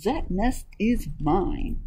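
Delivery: lightly voiced, fed-up duck; mildly indignant storybook duck; duck's cry. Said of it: "cried the duck".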